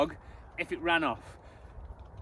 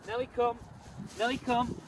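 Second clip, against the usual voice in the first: recall command; 4 semitones higher, 4 dB quieter than usual. Shown as a demonstration. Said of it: "I'll do it like this so you can see".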